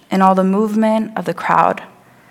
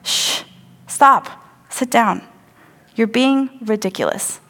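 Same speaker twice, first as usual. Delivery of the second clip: rebuking; 6 semitones higher than usual. Retold or imitated. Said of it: "They're saying".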